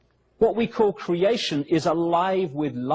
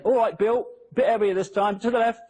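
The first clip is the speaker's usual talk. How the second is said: lightly mimicked workman, pitched higher; imagined workman directing; 5 semitones higher than usual. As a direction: guide a mate through a heavy lift, half-acted. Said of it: "you imagine it".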